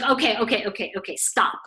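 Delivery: rapid-fire okays, then a firm stop; retold impatient interruption; cutting someone off. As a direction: interrupt impatiently to halt the speaker. Client cuts the reader off.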